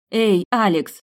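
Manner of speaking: high, loud hail; calling out. A narrator's reading. Heroine calling the transforming prince, loud and urgent. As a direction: call sharply for his attention. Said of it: "позвала, хлопнув в ладоши".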